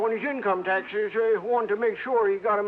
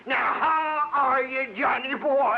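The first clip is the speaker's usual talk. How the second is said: hearty holler; slower than usual. Acted. Old cowboy hollers a greeting.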